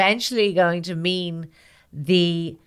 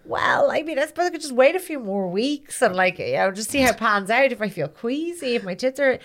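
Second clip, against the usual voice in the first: hesitant woman voice; 4 semitones higher than usual. Acted. Woman hesitant about mouse test.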